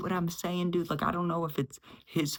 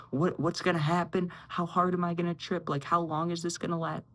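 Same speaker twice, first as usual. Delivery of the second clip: mild retold panic, higher pitch; panicked; 3 semitones higher than usual. Friend asks how long the trip lasts, mock panicked. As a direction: imitate a friend's anxious questions, pitched up. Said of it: "He's sitting there panicked".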